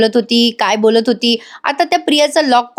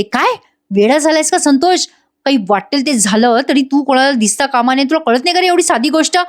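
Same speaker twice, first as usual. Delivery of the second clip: mild mock telling-off, pitched up at the end; retold scolding; 3 semitones higher than usual. Priya to Santosh for risking being seen, mildly scolding. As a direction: scold him in a lightly acted retelling.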